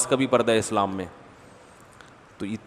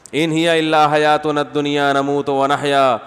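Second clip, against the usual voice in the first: verse recitation; slower than usual. Acted.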